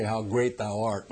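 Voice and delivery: hushed awe. Retold or imitated. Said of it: "look up and say".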